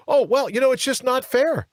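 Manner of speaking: whiny mock. Whiny mimic of opponents.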